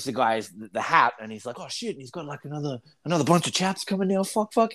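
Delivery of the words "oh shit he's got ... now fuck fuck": mock panic. Podcaster voicing a panicking ring attendant, mock fluster. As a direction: act out a rising mild panic, speeding up. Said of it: "like, he's panicking".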